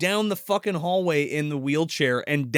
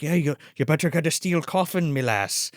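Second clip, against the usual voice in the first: lightly voiced Irish groundskeeper; mock Irish accent. Groundskeeper greeting the bereaved folks, light Irish accent. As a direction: put on a light Irish lilt. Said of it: "he's doing the Irish accent".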